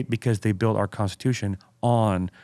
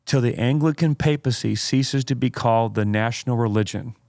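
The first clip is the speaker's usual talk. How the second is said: dramatic quote reading. Acted. Host reads Spurgeon's quote to co-host, dramatic oratory. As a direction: read it out with weighty pauses.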